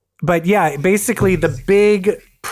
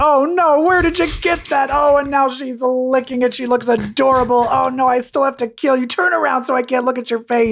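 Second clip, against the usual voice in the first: high-pitched fawning; 9 semitones higher than usual. Acted. Melting over a cute girl.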